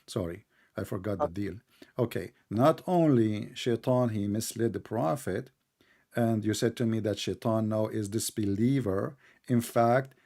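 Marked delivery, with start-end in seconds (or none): 2.0-5.5 slow and measured, dropping softer; slow right down to be understood; calmed, softer, careful pacing; deliberately slow. Shown as a demonstration. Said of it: "I need to speak slow".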